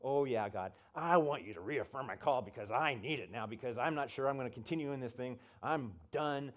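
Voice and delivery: mildly snarky retort to God. Retold or imitated. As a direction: talk back to God with mock eagerness. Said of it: "starting to get snarky with God".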